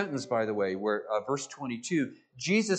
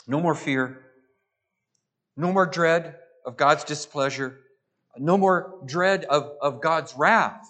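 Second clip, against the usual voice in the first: building proclamation; 4 dB louder than usual. Acted. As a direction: build the refrain toward a climax. Building preacher's refrain.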